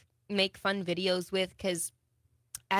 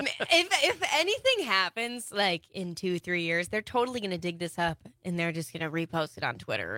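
put-on British accent. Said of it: "Talk about your new song in a British accent".

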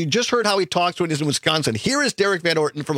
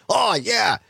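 put-on Wisconsin accent; 5 semitones higher than usual. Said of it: "he tries to do, like, a Wisconsin accent".

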